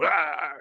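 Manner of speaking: drawn-out playful "ah" roar; mock monster cry. Telling how he'd scare her, mock monster cry. Imitates werewolf costume scare.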